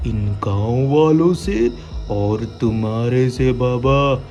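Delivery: menacing witch voice; old hag. Acted. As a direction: threaten with slow venom. Witch threatens. (बदला लेती चुड़ैल)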